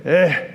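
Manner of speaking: put-on low, curt kid's grunt; imitated grunt. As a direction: grunt a minimal reply. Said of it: "he would grunt at me".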